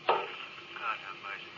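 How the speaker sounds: very low, slow, faint; last breath. Acted. Stone's last words before dying, fading out. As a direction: let it die away.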